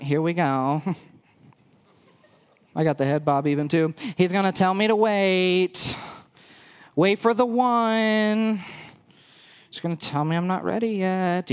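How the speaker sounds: a man doing a hint of a basic girl. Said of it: "my best basic girl voice".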